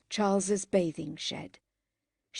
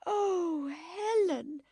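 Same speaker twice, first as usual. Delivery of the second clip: high despairing moan; 10 semitones higher, much slower than usual. Acted. Margaret moaning at her sister's latest scrape. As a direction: moan her name in dismay. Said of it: "moaned Margaret".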